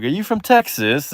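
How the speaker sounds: lightly put-on British accent. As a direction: ask like a curious Brit. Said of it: "say something in that accent".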